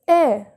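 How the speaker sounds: A as an open "eh"; circumflex E sound. Shown as a demonstration. Teacher showing viewers the circumflex E, A as open "eh". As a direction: say A like the vowel of French mère, "eh". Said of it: "The sound is A".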